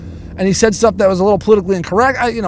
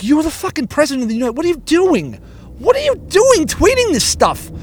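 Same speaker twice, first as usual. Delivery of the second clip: mock exasperated; 5 semitones higher than usual. Exasperated quote at the president.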